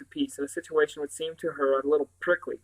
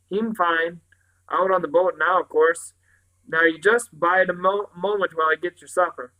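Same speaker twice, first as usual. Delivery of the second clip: lightly voiced Cornish housekeeper; 3 semitones higher, 4 dB louder than usual. Housekeeper to the visiting children, lightly voiced homely Cornish.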